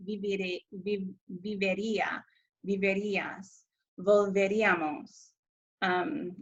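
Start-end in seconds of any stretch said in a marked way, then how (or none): 1.4-5.3 "vivería, viverías, volveríamos", each with the beat on the í; stress on accented í. Shown as a demonstration. Teacher modelling verb endings for students, stress on the í in "vivería, viverías, volveríamos". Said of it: "make sure that the I gets".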